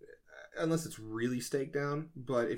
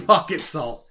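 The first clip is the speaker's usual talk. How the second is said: laughing; 4 semitones higher, 12 dB louder, slower than usual. Real, not acted. Laughing repeat of odd idea.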